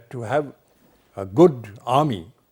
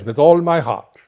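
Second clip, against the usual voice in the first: louder, firm and ready; soldier's hearty assent; 6 dB louder than usual. Retold or imitated. Othello the general accepting the duty without demur, firmly. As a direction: answer at once like a proud soldier. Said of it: "an army man, a general".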